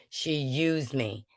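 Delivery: whispered, slow and hurt. Real, not acted. Speaker whispering how Wanda used her, slow and hurt. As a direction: breathe it out, wounded.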